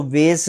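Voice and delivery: वेस said with an 'ay' vowel, as in 'case'; wrong pronunciation. Shown as a demonstration. Teacher warning students off a misreading, wrong pronunciation. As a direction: misread वेस to rhyme with 'face'. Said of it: "इसको वेस नहीं पढ़ना".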